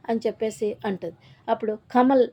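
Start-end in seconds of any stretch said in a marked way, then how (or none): 1.9-2.3 sharp, raised shout of the name. Retold or imitated. Father angrily cuts off his son Kamal, loud shout. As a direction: snap the son's name out loud. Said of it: "అని గట్టిగా అరుస్తాడు".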